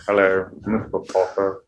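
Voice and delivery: low, soft, proper English villain; Alan Rickman. Acted. Professor greeting Mister Potter, low soft impression. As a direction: say it low and held back. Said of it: "like an Alan Rickman".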